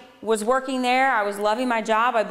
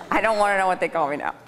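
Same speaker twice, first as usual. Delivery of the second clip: laughing aside; 4 semitones lower, faster than usual. Real, not acted. Joking aside after audience laugh.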